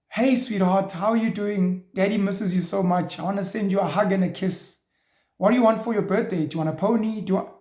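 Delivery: hammed-up TV parent talking to a child; Hollywood movie dad. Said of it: "like you're acting in a Hollywood movie".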